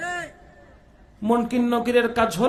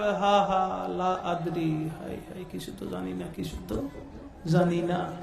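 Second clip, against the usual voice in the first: moaning unbeliever; 5 semitones lower, 9 dB quieter than usual. Acted. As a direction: moan helplessly like a lost soul. Mimics unbeliever failing answer. (অবিশ্বাসীর বিলাপের নিচু কাতর স্বর)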